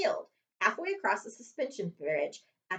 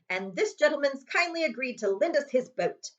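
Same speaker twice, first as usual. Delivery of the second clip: gleeful Uncle Vernon; 6 semitones higher, 4 dB louder than usual. Acted. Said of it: "said Uncle Vernon gleefully".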